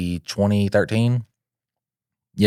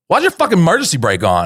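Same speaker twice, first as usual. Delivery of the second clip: incredulous yell; 8 semitones higher, faster than usual. Retold or imitated. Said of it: "One of the guys was just like".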